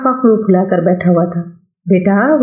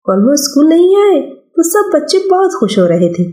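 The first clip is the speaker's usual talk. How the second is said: put-on higher boyish voice, brushing mother off; a busy schoolboy refusing food, a bit higher; young boy; 3 semitones higher than usual. Son refusing his mother's call to lunch, boyish and higher.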